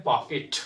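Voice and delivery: "पॉकेट" as "paa-ket"; e in the end of "पॉकेट"; common mispronunciation. Shown as a demonstration. Teacher showing common usage, "पॉकेट" as "paa-ket". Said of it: "पॉकेट नहीं होता है".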